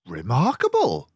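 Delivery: loud admiring exclamation; amazed praise; exclaiming. A narrator's reading. Dawson praising Basil, exclaiming loudly. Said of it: "I exclaimed".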